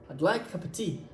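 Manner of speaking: "of" reduced to a tiny vowel, "like" prominent; English rhythm. Shown as a demonstration. Teacher repeats the rhythm model, "like cup tea" carrying the beat. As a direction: run "cup of tea" together, weight on main words. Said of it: "la rythmique, c'est le fait de faire".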